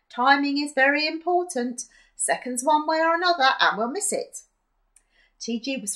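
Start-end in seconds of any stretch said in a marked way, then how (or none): 0.1-4.4 urgent. Acted. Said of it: "she said urgently".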